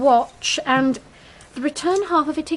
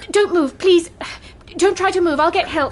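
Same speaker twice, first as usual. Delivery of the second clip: louder, higher, urgent pleading; urgent plea; 3 semitones higher, 4 dB louder than usual. Acted. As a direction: keep him still, pressing hard. Urging the wounded man.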